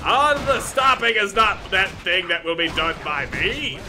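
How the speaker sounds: roaring barbarian battle cries. Acted. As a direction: bellow like a raging barbarian.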